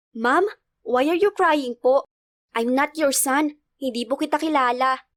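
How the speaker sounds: a hint of a puzzled small boy; little boy. Boy to crying stranger, lightly childlike and puzzled.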